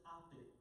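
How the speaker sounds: "Oppie" with the opening H left off; dropped H. Shown as a demonstration. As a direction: say "Oppie" British-style, no H sound. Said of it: "didn't really pronounce the H".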